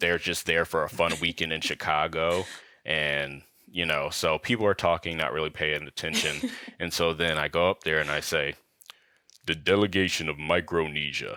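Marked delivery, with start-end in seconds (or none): 9.5-11.4 put-on deepest possible voice. Retelling announcing the delegation to an inattentive room, in a put-on deepest voice possible. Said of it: "speak in your deepest voice possible".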